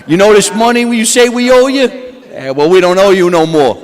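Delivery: lightly voiced tough mobster; a touch of Italian gangster swagger. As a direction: lean into a hint of wise-guy menace. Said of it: "The Italian way, the mobster way".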